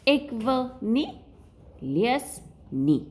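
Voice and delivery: slow, sulky refusal; mock refusal. Shown as a demonstration. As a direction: play a pupil who won't read. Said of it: "And you are saying".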